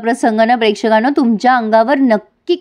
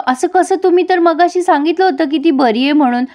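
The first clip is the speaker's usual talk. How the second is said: higher-pitched, mildly acted disbelief; retold shocked protest; 6 semitones higher than usual. Brother challenging the doctor's news, retold in higher-pitched dismay. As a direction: question the news in acted alarm.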